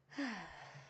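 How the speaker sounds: long soft falling sigh; relaxed sigh. Real, not acted. Streamer settling into a break, relaxed sigh. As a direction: let out a slow, quiet sigh.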